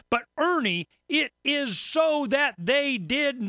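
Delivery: high, slow whiny mock protest; mock listener objection. Mocking a listener correcting Ernie, whiny protest. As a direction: parody the listener's insistence. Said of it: "They go".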